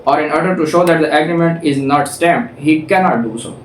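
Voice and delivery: slow, deliberate reading of legal text; reading the statute. Shown as a demonstration. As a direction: read each clause out slowly, like a law book. Reads statute text aloud.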